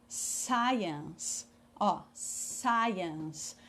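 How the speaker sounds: "science" drawn out as "SAI-ens"; pronúncia demonstrada. Shown as a demonstration. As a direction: model "science" slowly for learners to copy. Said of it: "Prestem bastante atenção na pronúncia". ("science" pronunciado devagar, "SAI-ens")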